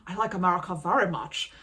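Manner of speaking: put-on Swedish accent; hammed-up Swedish accent. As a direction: imitate a foreigner's careful Swedish-accented English. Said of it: "the only person ... that has an accent".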